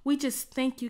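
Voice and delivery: rising and falling prayer, hushed at each God; fervent prayer. Real, not acted. Worship leader praying over music.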